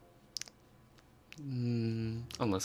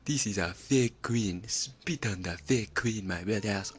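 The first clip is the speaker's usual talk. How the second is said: meme character voice; slower than usual. Retold or imitated. Quoting a meme character's accent.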